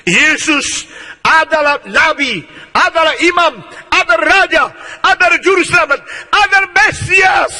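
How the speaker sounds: rising proclamation. Acted. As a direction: climb to the climax on Mesias. Saul's climactic proclamation.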